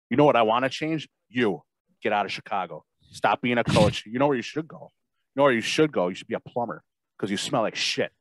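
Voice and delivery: wrestling promo. Acted. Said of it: "The speaker cuts a promo on Matt Nagy".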